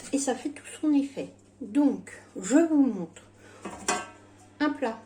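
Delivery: speaking without dentures; lisping gums, no teeth; toothless speech. Real, not acted. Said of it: "Oui, j'ai pas de dents".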